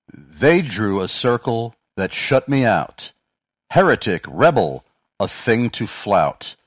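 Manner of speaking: slow, emphatic poem reading; measured recital with punched key words; verse recitation. Real, not acted. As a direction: recite it deliberately, line by line, each phrase landing. Reads out a quoted verse.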